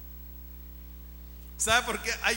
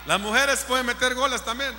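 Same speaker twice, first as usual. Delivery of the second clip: raised preaching voice; rousing loud encouragement; 2 semitones higher, 4 dB louder, faster than usual. Real, not acted. Preacher telling the sisters they can score too, loudly. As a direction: push it out loudly to include everyone.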